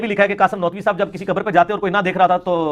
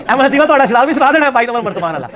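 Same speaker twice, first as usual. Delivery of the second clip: laughing; 4 semitones higher, 4 dB louder than usual. Real, not acted. Mocking joke while laughing.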